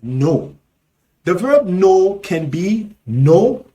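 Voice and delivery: usual speaking voice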